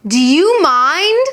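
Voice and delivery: slow, loud and irritated; indignant, drawn-out Do you mind; annoyed. Shown as a demonstration. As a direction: snap it at someone being rude. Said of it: "said in a loud and annoyed way".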